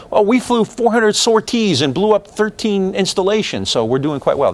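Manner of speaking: a hint of a pleased official reading statistics; mock McNamara boast. Lecturer parodying McNamara's data talk, lightly voiced smug. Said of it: "This is kind of how McNamara sees it".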